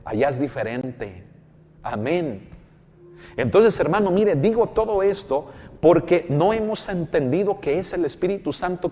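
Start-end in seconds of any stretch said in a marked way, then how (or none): 3.4-8.9 higher and louder, full preaching force; fervent preaching. Real, not acted. Preacher drives his point home to the congregation, loud and fervent. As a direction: build to a fervent cry.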